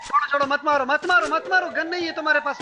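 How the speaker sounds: high, urgent plea to hold off; real mid-game urgency; urgent warning. Real, not acted. Urging teammate not to fight.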